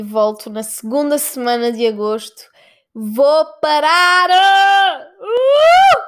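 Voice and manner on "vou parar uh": drawn-out joyful yell, very high whoop; excited shout. Real, not acted. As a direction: yell it out with relief. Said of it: "announcing her break joyfully".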